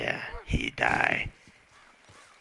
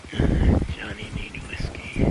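louder breathy "Johnny need whiskey", punching "Johnny"; pushy demand; 4 dB louder than usual. Acted. Johnny demanding whiskey from the game, louder.

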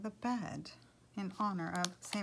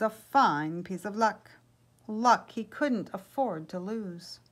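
animated, projected storyteller voice; lively picture-book reading; story narration; 8 dB louder than usual. A narrator's reading. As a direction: read it aloud to an audience, lifting key phrases. Story read to listeners.

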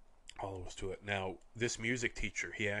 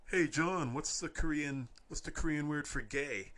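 teasing call-out; 7 semitones higher than usual. Retold or imitated. Taunting a classmate in class.

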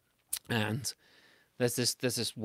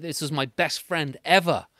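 put-on kid-friendly retelling; 4 semitones higher, 3 dB louder than usual. Shown as a demonstration. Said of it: "You gotta say that".

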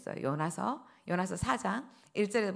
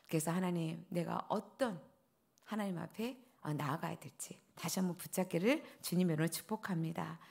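whispered blessing; 4 semitones lower, 8 dB quieter than usual. Real, not acted.

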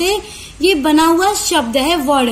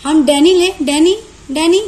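डेनी hit hard and louder on डे; stressed डेनी; 4 dB louder than usual. Shown as a demonstration. Teacher loudly stressing डेनी to contrast it with कार. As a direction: punch the डे in डेनी. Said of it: "हम ज्यादा उस पे जोर लगा रहे हैं".

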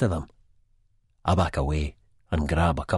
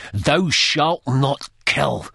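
mild intense warning; 9 semitones higher, 5 dB louder, much slower than usual. A narrator's reading. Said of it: "eyes burning".

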